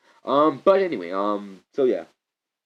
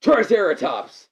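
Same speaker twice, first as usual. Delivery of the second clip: slow hammed-up yell, higher and louder; mock TV shout; 7 semitones higher, 6 dB louder, slower than usual. Mimicking the old show's Zord call, slow hammed-up shout. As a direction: stretch the name out like a cheesy TV hero. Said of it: "the original T V show where, like".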